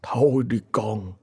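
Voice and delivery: a tired, whispered sigh of a line; slow resigned whisper; weary whisper. A narrator's reading. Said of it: "thở dài ngao ngán".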